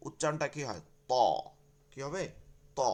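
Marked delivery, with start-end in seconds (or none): 1.1-1.1 ত said full and thick. Shown as a demonstration. Teacher showing how this letter sounds, thick ত. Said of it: "মোটা হয়". 2.8-2.8 ত said full and thick. Shown as a demonstration. Teacher repeating the letter for students, thick ত. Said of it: "মোটা".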